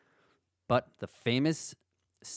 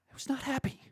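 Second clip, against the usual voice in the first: mock frustrated; 13 semitones higher, much faster than usual. Real, not acted. Recalls frustration with the game.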